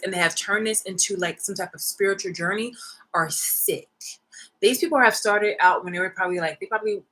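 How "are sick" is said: breathy disgusted whisper. Real, not acted. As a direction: drop to a whisper on the verdict. Whispered condemnation.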